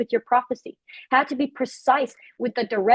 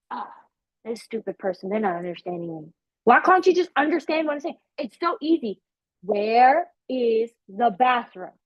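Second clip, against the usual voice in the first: frustrated tourist; 3 semitones lower than usual. Retold or imitated. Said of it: "And I'm sitting here saying".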